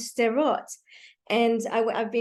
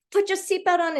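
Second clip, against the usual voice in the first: mild mock yell; 7 semitones higher than usual. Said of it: "she's yelling at her kid".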